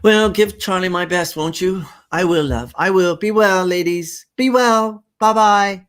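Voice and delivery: bright, high-pitched neighbourly goodbyes; cheery high farewell. Acted. Neighbour women calling a fond farewell. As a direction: sing out the goodbyes to the departing women.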